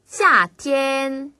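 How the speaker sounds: 夏 falls steeply, 天 stays high and level; fourth-first tones. Shown as a demonstration. Teacher models tones for learners, 夏 falling, 天 high level. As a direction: drop hard on 夏, then stretch 天 on a high line. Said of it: "위에서 아래로 뚝 떨어지는 느낌으로".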